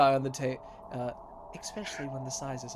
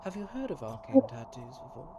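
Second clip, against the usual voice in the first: tattooist welcoming customer; 4 dB quieter than usual. Acted. GM voices tattooist Doc.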